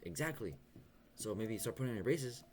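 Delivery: hammed-up gleeful told-you-so; mock laughing dentist. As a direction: voice the dentist laughing as she scolds. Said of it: "she was laughing".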